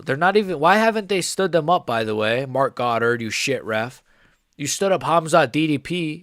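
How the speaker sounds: loud, furious rant at the referee; angry yelling. Real, not acted. Streamer raging at the ref over a dull fight, angry shouting. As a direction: yell at the ref in real frustration. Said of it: "I'm really angry".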